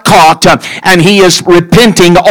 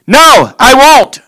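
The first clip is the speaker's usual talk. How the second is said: slow, deliberate refusal, a little higher; firm refusal; 4 semitones higher, slower than usual. Acted. Samuel refusing to worship with Saul, slow and firm. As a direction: spell out each no slowly and firmly. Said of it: "and Samuel said".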